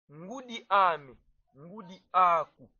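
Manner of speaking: ngudi ame, ngudi aku said slowly, syllable by syllable; slow model pronunciation. Shown as a demonstration. Teacher modelling the phrase for students, slow and clear. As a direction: spell out ngudi ame for learners. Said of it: "on met a".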